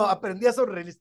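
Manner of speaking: normal talking voice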